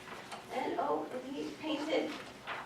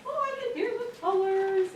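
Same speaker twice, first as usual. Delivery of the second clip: retold wonder; 8 semitones higher than usual. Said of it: "he's like".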